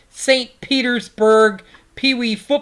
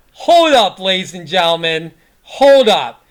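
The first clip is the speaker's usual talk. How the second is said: calling out; 2 semitones lower, 4 dB louder than usual. Real, not acted. Calling the audience to stop.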